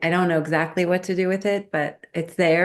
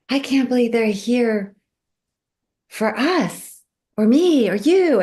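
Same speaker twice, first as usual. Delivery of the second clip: high, emphatic amazement, retold; disbelieving wonder; 7 semitones higher, 5 dB louder than usual. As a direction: marvel out loud, pitched well up. Marvels at fish in dream.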